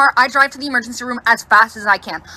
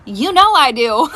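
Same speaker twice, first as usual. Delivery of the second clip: laughing; 10 semitones higher, 5 dB louder, slower than usual. Real, not acted. Laughing reply.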